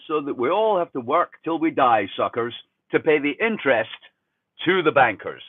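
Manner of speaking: lightly lampoon a smug politician; mild mock politician pitch. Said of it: "your politicians say".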